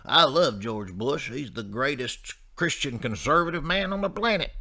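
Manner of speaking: lightly put-on true-believer voice; devoted Bush fan. Bush fan praising his hero, mock adoring.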